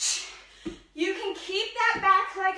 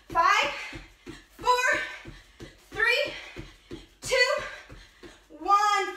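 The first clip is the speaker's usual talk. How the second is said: loud, rising count to hype the class; shouted countdown; 4 semitones higher, 5 dB louder, much slower than usual. Real, not acted. Coach shouting the countdown to her class, loud and rising. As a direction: push them through the last seconds with a shouted count.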